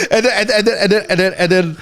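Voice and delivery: high, stammering through laughter; real laughter breaking into the words; laughing. Real, not acted. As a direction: laugh while trying to carry on. Laughing while telling his story.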